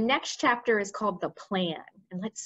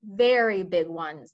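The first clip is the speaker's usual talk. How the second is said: slow, louder boast; proud; 3 semitones lower, 5 dB louder, slower than usual. Acted. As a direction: draw it out with pride. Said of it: "head of the Air Force said proudly".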